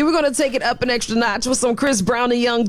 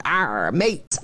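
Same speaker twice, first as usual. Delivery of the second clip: pirate voice; 5 semitones lower than usual. Pretend. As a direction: growl it like a pirate. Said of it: "What is International Talk Like a Pirate Day?".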